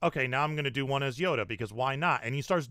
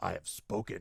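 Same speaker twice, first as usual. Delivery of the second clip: roughened-up growly put-on character voice; 7 semitones lower, 8 dB quieter than usual. Showing roughly how the Quill voice sounds: rough Quill voice. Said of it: "I can sorta do Quill's voice, you know, just kinda rough".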